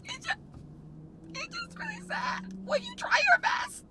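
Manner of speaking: high, soft, broken crying voice. Real, not acted. Vlogger telling viewers the car vlog failed, crying. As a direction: let it squeak out through tears. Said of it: "wondering why I'm crying".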